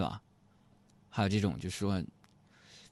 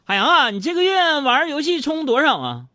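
high, loud voiced wife demanding; wife's interrogation; 7 dB louder than usual. Wife questioning husband about game spending, high-pitched and loud. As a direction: mimic the wife's sharp question.

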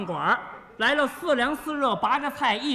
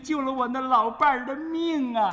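lightly voiced grateful old woman; a touch of an old granny thanking him, slowing down; old lady. Old woman thanking the man for saving her husband, lightly voiced. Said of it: "有个老太太又搭腔了".

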